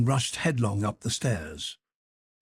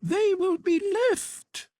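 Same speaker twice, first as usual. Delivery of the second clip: pleading cry; slower than usual. Acted. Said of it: "she cried".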